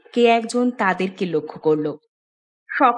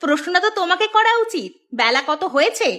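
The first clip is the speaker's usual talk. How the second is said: indignant scolding, pitched up at the start; nagging wife; 3 semitones higher than usual. Acted. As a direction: take a lazy husband to task. Wife scolds lazy husband. (স্ত্রীর রাগী বকুনি)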